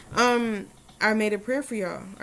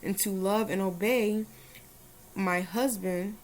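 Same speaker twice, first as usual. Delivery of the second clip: prayer. Shown as a demonstration. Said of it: "I said I was gonna put it in English first".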